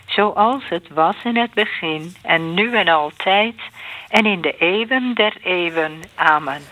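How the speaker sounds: measured liturgical response; prayer recitation. Real, not acted. Answering the glory to Father, Son and Spirit, measured prayer recitation. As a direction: recite it evenly in set phrases.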